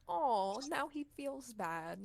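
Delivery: mock pity. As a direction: imitate a slow guilt trip. Mimics the guilt-tripping girl.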